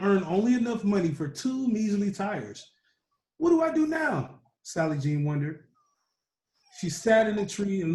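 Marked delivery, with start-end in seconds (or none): 3.4-4.4 desperate cry. Acted. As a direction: throw the question up to the sky. Sally Jean stuck, wondering again.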